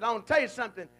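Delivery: loud commanding ruling; stern judge. Retold or imitated. Judge ordering the accountant to repay, loud and stern. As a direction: lay down the verdict. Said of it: "the judge said".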